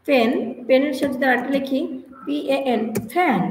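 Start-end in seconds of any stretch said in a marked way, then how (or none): 3.1-3.4 "ফ্যান" as pan with a puff on P; airy first sound in "ফ্যান"; aspirated P. Shown as a demonstration. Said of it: "প্যান নয়". ("ফ্যান"-এর শুরুতে মহাপ্রাণ প)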